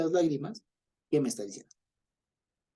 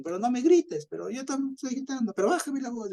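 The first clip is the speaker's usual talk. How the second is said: mock shouting quarrel; 11 semitones higher than usual. Acted quarrel about shouting.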